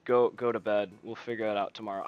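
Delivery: low-key, sleepy brush-off; imitated half-asleep reply. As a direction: lightly act a groggy man wanting to sleep. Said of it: "he didn't really wake up either".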